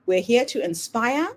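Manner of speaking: polished announcer read over music; podcast intro read. Acted. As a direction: welcome listeners like a show host.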